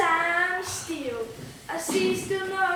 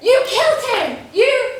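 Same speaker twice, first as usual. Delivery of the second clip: loud, higher shouted accusation; accusing shout; 6 semitones higher, 10 dB louder than usual. Acted. Accusing the pirates of killing the old man, shouting. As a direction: point and yell You at them.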